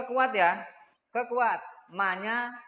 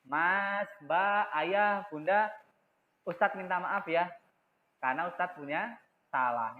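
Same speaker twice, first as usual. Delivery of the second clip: soft gentle apology; 4 semitones lower, slower than usual. Shown as a demonstration. Teacher models a soft, gentle apology to family. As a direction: lower and softer, tender sorry. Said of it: "Ustadz harus dengan suara yang lembut".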